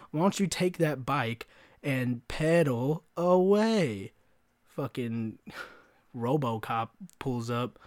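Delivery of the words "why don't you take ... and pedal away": slow, drawn-out send-off; sarcastically shooing someone off; mocking dismissal. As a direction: stretch the final words into a taunt. Retold taunt to leave store.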